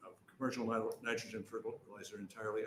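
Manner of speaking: stumbling and restarting words in a rush; real stammer from trying to hurry. Real, not acted. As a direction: trip over the words, with uhs and false starts. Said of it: "I'm stammering 'cause I'm trying to talk fast".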